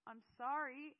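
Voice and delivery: loud, high call after someone; yelled apology. A narrator's reading. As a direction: yell it after someone being taken away. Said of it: "I yelled after him".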